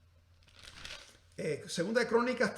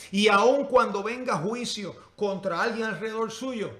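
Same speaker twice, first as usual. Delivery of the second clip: raised, louder openings on each line; emphatic preaching; 3 semitones higher, 8 dB louder than usual. Real, not acted. Preacher urging church to persist in seeking God, emphatic preaching. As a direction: preach it out in slow, forceful phrases.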